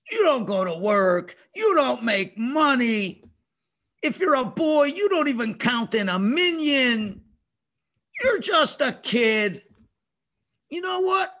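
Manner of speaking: drawn-out, emphatic taunt; tricky tempter. Acted. Tempter talking down to a little kid, belittling. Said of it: "This is what he says".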